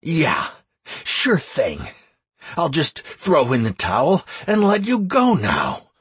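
sarcastic growl, gritted teeth; growled through teeth. Acted. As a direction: grit it out sarcastically. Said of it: "I growled, teeth clenched".

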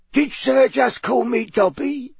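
tiny, very high quivering house-elf voice; curious elf squeak. A narrator's reading. House elf asks a stranger about a name, squeaking curiously. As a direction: squeak the question slowly and curiously. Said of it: "squeaked the elf curiously from between its fingers".

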